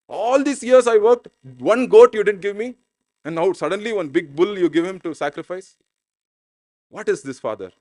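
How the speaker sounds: indignant questioning, loud at first, then dropping; acted protest, stretched and loud opening; upset. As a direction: confront the father as a wronged son. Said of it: "he's, he's upset".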